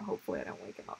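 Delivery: unvoiced whisper; whispering over a crib. Real, not acted. Baby asleep nearby.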